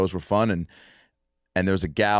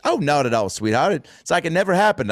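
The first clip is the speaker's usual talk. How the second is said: slightly raised mock Houston twang; thick Houston accent; 6 semitones higher than usual. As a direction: reassure like a Houston gal, in her accent. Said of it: "someone with a thick accent like that".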